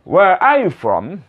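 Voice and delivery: slow WHERE ARE YOU FROM, with ARE said "ah"; correct pronunciation. Shown as a demonstration. Teacher shows how it should sound, slowly and clearly. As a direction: stretch ARE as an open "ah". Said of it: "Nah, seperti ini".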